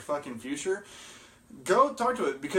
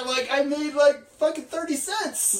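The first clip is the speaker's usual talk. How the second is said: laughing; 12 semitones higher than usual. Real, not acted. Laughing about a tiny gain.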